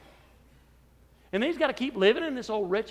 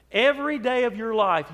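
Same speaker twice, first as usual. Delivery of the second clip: louder emphatic repeat; 5 dB louder than usual. Acted. Preacher pressing the congregation, louder and emphatic. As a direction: repeat it louder, leaning on every.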